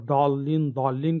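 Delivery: ضالین said with a heavy, pressed دال sound instead of ض, so it sounds like dhaaleen; zaad said as heavy dal. Shown as a demonstration. Teacher showing students the wrong ضالین, heavy dal sound. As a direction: say ضالین as if it begins with a thick dal. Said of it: "ضاد سے ضالین نہیں، بلکہ دال مفخمہ سے ضالین".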